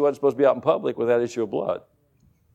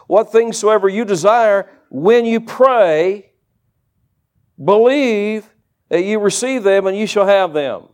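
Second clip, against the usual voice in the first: measured, emphatic verse reading, higher pitch; scripture reading; 3 semitones higher, 3 dB louder, slower than usual. Acted. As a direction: proclaim the promise phrase by phrase. Reads the verse aloud to congregation.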